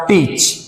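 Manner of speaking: टीच with a long ee; long vowel. Shown as a demonstration. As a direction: draw out the ee in टीच. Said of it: "large या long sound में".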